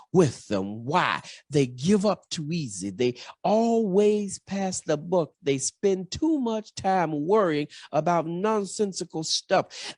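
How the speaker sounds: rhythmic sermon cadence, rising and falling; preaching. Acted. Preacher urging the congregation in earnest sermon cadence.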